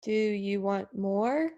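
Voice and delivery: rising pitch. Shown as a demonstration. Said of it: "Much better".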